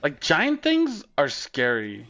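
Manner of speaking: very slow, mock-serious drawl; goofy put-on voice, drawn out; silly voice. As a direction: stretch it out like a spooky warning. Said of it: "I'm just doing voices at this point".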